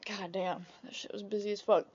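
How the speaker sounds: soft whispered God damn; whispered curse. Real, not acted. Remembering the Christmas rush, whispered curse. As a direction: breathe it out under your breath. Hushed aside about busy days.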